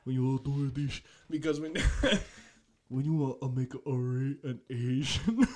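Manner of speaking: halting mock Asian accent; lightly caricatured Asian accent in broken bursts. Shown as a demonstration. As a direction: fumble through a put-on Asian accent. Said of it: "like, that sounds bad".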